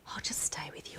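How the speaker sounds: soft, low reassuring murmur; hushed and careful, imitating a nurse; gentle near-whisper. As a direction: voice a nurse softly offering company. Retold nurse gently offers to stay.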